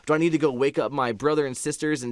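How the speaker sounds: retold rush of worried questions; teary-eyed panic. Fearing for the family's safety, teary-eyed panic. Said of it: "get teary-eyed. And I'm like".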